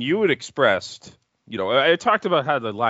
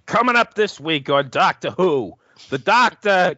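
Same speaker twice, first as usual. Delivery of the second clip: louder, higher TV promo announcer; 6 semitones higher, 5 dB louder than usual. Retold or imitated. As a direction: announce it like a hammy trailer voice. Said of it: "announcer sounded like Christopher right there".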